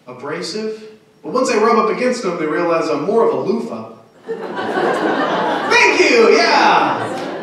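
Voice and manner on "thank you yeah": pleased shout. Real, not acted. Crowd applauds the joke.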